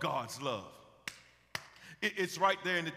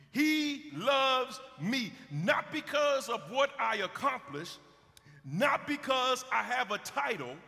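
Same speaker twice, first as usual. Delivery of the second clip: preaching. Acted. Preacher reciting a personal verse.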